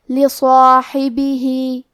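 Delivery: لصاحبہ chanted slowly, with a heavy saad; heavy saad demo. Shown as a demonstration. Teacher models the heavy saad, slow chant. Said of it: "بھاری آواز میں پڑھیں گے".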